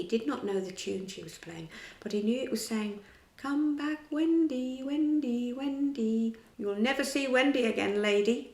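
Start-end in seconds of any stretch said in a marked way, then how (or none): 3.4-8.5 higher, calling out to the lady; crying out. A narrator's reading. Peter taunting the mother, crying out higher. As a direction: sing out the music's message. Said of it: "Peter cried".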